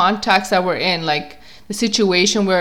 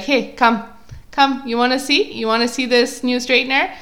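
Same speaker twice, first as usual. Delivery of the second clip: higher-pitched coaxing sales pitch; pushy salesperson; 6 semitones higher than usual. Retold or imitated. Mall salesperson to a passer-by with a straightener, higher coaxing voice. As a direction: imitate a mall seller luring someone over. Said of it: "people at the mall ... trying to, like, get you to try their straightener".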